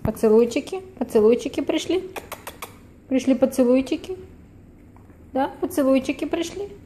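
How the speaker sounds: high cooing pet voice. Real, not acted. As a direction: coo at the dog, voice up high. Cooing at the dog. (высокое сюсюканье с собакой)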